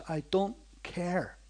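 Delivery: slow, flat-voiced don't-care; cold indifference. Bitter brother brushing off the preacher's warning, slow and cold. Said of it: "the way he said it to me, he didn't care".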